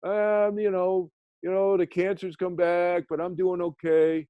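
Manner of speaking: high, slow, cheerful father's reply; imitating his father. Son voicing his dying father telling an old friend he's okay, high and slow. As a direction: bravely make light of it in a high, slow voice. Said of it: "And my dad said".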